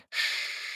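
long unvoiced shushing hiss, very soft. A narrator's reading. Cindy hushing George so Carlotta won't hear, hissed shush. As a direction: hush him with a sharp hiss. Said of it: "зашипела Синди".

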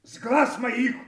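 high, loud enraged roar; furious shout. Acted. King screams at loyal Kent to get out, furious shout. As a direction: drive him from your sight with fury.

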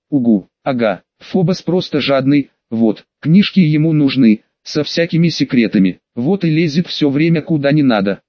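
accusing little fairy voice. Acted. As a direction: pixie scolding, lightly voiced. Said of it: "обрушилась на меня голосом феи".

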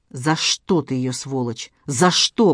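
understated anguished moan. Acted. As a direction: groan the question out in grief. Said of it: "простонал Ростов".

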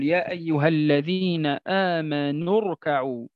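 "آمنوا اركعوا" joined as "aamanur-ka'u"; connected recitation. Shown as a demonstration. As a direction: recite straight through, dropping the hamza of "اركعوا". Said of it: "عند قراءة الآية كاملة ماذا نقول؟".

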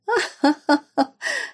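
roaring mocking laugh; guffawing laugh. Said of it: "Гоготала в повисшей тишине Эрика".

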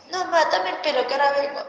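insistent retold request. Daughter insists, repeats request.

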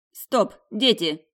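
halting the quarrel. A narrator's reading. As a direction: break up the kids' squabble.

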